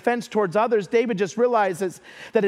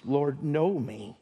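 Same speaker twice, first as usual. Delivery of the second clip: soft and slow, low, leaning on know; a quiet plea to God; hushed prayer; 7 semitones lower, 6 dB quieter, slower than usual. Acted. David prays to God.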